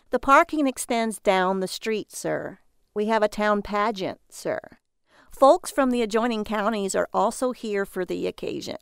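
lightly voiced male clerk; a hint of an affected clerk's voice; hotel clerk. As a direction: play the clerk lightly, politely addressing a guest. Male clerk's dialogue in narration.

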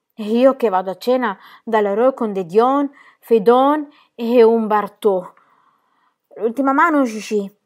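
loud, slow hurried uncle; Gaston's booming voice. A narrator's reading. Gaston tells Gigi to play the last hand, loud. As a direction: push to finish before dinner.

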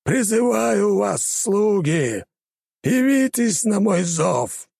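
high, slow thundering call; commanding summons. Acted. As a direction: summon your servants with a roar. Summoning servants, shouted.

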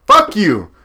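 fuck you. Real, not acted. Snapping at his co-host, fairly loud. Heated rant at co-host's pick.

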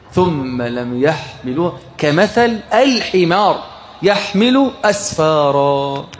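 measured, drawn-out recital of the verse; slow Quranic recital; slow Quran recitation. Acted. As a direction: recite it slowly and solemnly.

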